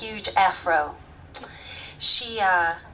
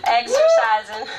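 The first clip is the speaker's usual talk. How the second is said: out of breath; 2 semitones higher, 3 dB louder than usual. Retold or imitated. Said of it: "I'm out of breath".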